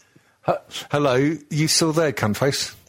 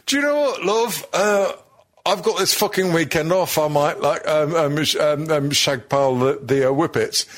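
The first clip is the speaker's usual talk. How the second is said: high mock husband voice; 5 semitones higher than usual. Mock husband offering to help.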